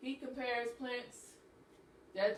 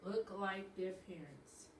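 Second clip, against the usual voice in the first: slow read-aloud; 3 semitones lower, 12 dB quieter, slower than usual. Shown as a demonstration. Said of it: "slow word by word reading".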